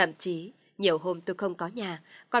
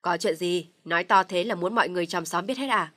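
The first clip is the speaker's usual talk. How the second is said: stern question; 5 dB louder than usual. Acted. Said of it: "hắng giọng hỏi".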